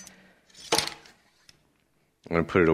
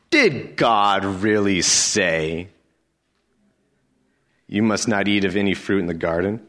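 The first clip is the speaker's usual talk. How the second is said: slow, drawn-out sly question; sly serpent. Acted. Serpent slowly questioning the woman, drawn-out and sly. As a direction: plant doubt slowly, leaning on did.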